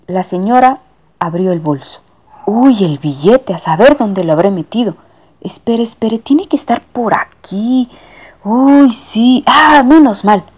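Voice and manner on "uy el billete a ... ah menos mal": high, fussing lady searching her bag; flustered lady. Acted. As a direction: rummage and fret aloud.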